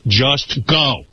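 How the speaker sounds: firm order, each word set apart; firm retold command. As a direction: tell her firmly to leave. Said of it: "Like that".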